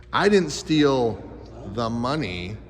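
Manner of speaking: slow build, pause, then "the money" set apart low; stress on MONEY. Shown as a demonstration. Teacher showing kids voice inflection, stress on MONEY. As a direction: break before "the money" and land it deliberately. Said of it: "Voice inflection is like this".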